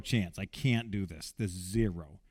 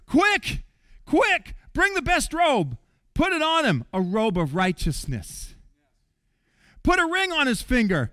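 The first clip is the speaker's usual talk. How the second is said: urgent father's command; 3 semitones higher than usual. Retold or imitated. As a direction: hurry them along. Father urgently ordering servants.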